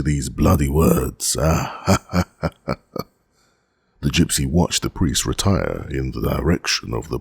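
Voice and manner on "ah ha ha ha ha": guttural mocking "ha ha" from behind a wall; acted guttural cackle; guttural laugh. A narrator's reading. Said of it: "A guttural laugh replied".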